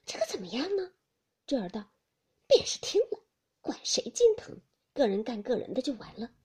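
two maids fretting together, anxious; worried maids. Acted. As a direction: fret about being overheard.

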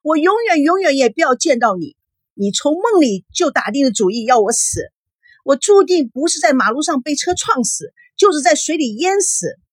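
high-pitched, frantic tirade; distraught daughter raving at a visitor; hysterical shouting. A narrator's reading. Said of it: "孙娜歇斯底里的大叫".

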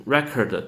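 record as the noun REC-ord, first syllable stressed; noun pronunciation. Shown as a demonstration. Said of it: "这个地方的 record".

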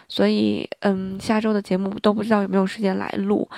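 hoarse, worn-out voice; talking through a sore, hoarse throat; gravelly voice. Real, not acted. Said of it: "你们也能听到我嗓子已经哑了". (嗓子沙哑)

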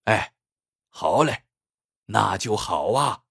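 pleased, easygoing agreement; mildly cheerful; happily. A narrator's reading. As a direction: agree gladly, drawing out the last words. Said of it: "老板高兴地说".

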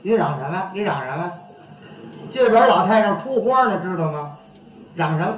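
low, dismissive comeback, played out; 态度蛮横. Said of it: "您看这态度就这样了". (压低嗓子，爱搭不理地顶回去)

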